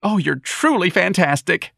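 high, slow gleeful crow. Acted. Young man mocking Ignatius, gleeful and high. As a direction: relish every word. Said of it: "the young man said gleefully".

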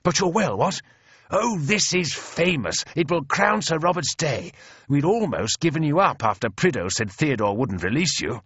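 high, hearty officer's enthusiasm; Speedy exclaiming. A narrator's reading. Bearded officer overjoyed to find his friend alive, exclaiming. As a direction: gush in booming delight, easing toward the end. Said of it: "cries Speedy".

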